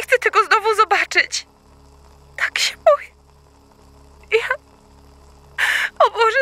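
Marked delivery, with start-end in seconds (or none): 2.4-4.5 terrified whisper. Acted. Terrified after seeing creature.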